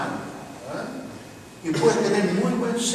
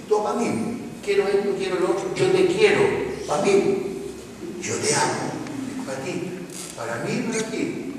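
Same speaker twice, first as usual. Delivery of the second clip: mock teen selfishness; 2 semitones higher, 4 dB quieter than usual. Contrasting selfish and giving love.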